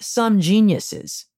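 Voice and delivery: drawn-out, dry sarcastic quote; understated sarcasm, stretching the words slowly; quoted sarcasm. Retold or imitated. Quoting a witty justice on the law's authors, mildly sarcastic. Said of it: "sarcastically referring to the authors".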